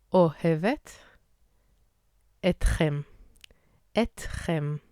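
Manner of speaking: ani ohevet etchem from the throat, little air, mouth barely moving; low throaty Hebrew. Shown as a demonstration. Teacher telling learners I love you in throaty Hebrew. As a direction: keep it low in the throat, no rounding. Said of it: "in a lower key through our throat".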